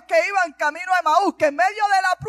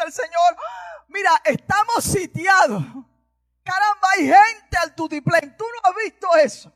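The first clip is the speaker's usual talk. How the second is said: alarmed servant; 4 semitones higher than usual. Acted. Servant reports siege to master.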